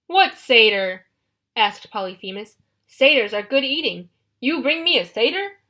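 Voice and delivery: loud eager giant; loud hungry monster voice; greedy cyclops. Acted. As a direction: lick your lips at the thought.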